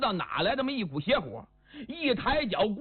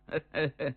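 short chuckle; 5 semitones lower than usual. Acted. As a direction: chuckle briefly in character. Woman awaits his answer.

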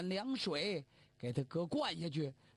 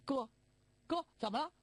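higher, startled younger brother; younger brother calling; 5 semitones higher, faster than usual. Acted. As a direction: call up to your brother in alarm. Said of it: "他兄弟先起来". (弟弟惊慌地叫哥哥)

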